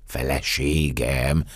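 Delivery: slow, dazed echo with a rising end; stunned, drawn-out question; stammered astonishment. Acted. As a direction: repeat the word slowly, dumbfounded. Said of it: "hebegtem káprázó szemmel".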